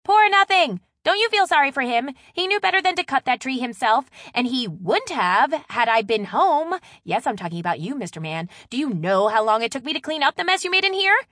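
loud, high indignant tirade; worked-up, exasperated scolding; voice rising in outrage. A narrator's reading. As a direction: rant at the culprit, voice shooting up. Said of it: "Maddie's voice rose an octave".

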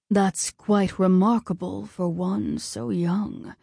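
slow, measured god; lightly voiced appraising god; Ares voice. A narrator's reading.

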